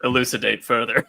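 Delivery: lightly voiced robot, flat and even; a hint of a computer voice. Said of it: "the robot goes".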